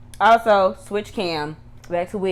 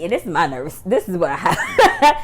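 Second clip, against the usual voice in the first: laughing; 6 dB louder than usual. Real, not acted. Laughing at her own nerves.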